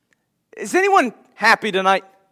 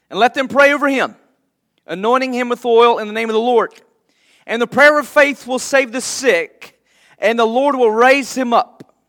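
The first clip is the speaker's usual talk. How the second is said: measured, solemn reading of the Word; scripture reading; 2 semitones higher than usual. Acted. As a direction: read it to the standing church. Reads scripture aloud.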